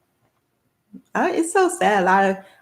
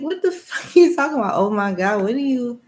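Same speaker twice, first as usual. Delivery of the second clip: incredulous; 4 semitones higher than usual. Retold or imitated. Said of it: "I'm like".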